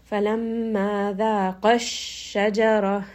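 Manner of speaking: slight raise and pressure on ذَاقَ going into الشَّجَرَةَ; nabr emphasis. Shown as a demonstration. Teacher showing the dual verb through nabr on ذَاقَ. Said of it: "I'm raising the voice just a little bit".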